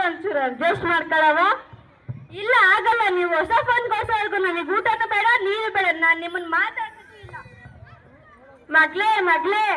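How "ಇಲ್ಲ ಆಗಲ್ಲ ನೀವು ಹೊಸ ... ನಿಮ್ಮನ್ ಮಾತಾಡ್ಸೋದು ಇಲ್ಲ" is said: lightly voiced girl, higher, insisting; a hint of a child throwing a tantrum; stubborn daughter.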